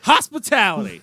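lightly voiced movie dad; mock dad voice. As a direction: deliver it like the dad. Finishing movie quote.

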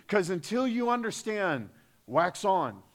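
hammed-up Miyagi accent coaching wax on, wax off; mock Japanese-English accent of the movie sensei; Miyagi-san accent. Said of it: "that's a really bad accent of Miyagi-san".

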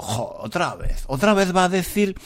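fed-up listener. Retold or imitated. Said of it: "estarás diciendo".

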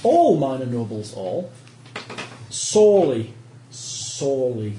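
a hint of a pompous lord; lightly voiced proud noble. NPC noble boasts of his men.

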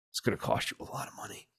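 quiet, fast, menacing whisper. Retold or imitated. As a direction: whisper the threat softly. Mock threat to MBS.

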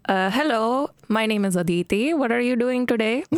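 a light, lightly done Indian accent; a playful Indian accent demo, not overdone. Shown as a demonstration. Asked by a co-host on the podcast, she does a light Indian accent. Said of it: "Do an Indian accent for us".

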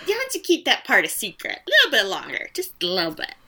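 laughing joke. Retold or imitated. Joking continuation, laughing.

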